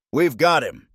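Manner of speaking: high-pitched, hopeful realization; dawning hope. A narrator's reading. May sees the proof against Crowley, dawning hope. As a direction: lift the voice high with new hope. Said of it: "hope dawning on her face".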